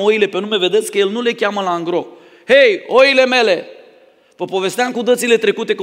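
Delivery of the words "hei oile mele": louder, higher, slow mock call; a shepherd calling all his sheep at once, loud and drawn out. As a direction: holler at the whole flock at once.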